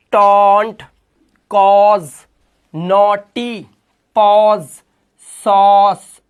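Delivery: each word said loud and separate, stressing the अ sound; "सॉस" said loud and on its own; clear word demos. Shown as a demonstration. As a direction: announce each word like on a flashcard. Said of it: "अ की आवाज है सभी के अंदर".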